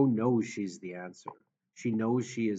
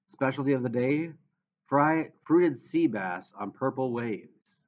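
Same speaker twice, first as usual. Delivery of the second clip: put-on thick, drunken slur; slurred voice; 2 semitones higher, 4 dB louder than usual. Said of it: "in a thick, slurred voice".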